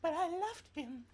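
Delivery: Batman voice. Pretend. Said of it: "Batman doing an orgasm".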